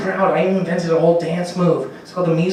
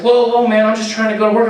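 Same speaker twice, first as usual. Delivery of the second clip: higher, louder alarmed protest; startled protest; 6 semitones higher, 5 dB louder than usual. Retold or imitated. A stranger accused of stalking, startled loud protest. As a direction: back off, loudly flustered. Startled guy defends himself.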